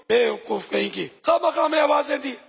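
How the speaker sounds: haughty scolding. Acted. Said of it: "بڑے غرور سے بولی".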